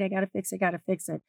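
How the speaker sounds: quiet obsessive mutter under her breath; muttering to herself. Retold or imitated. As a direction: mutter it like a nagging thought. Perfectionist inner voice repeating.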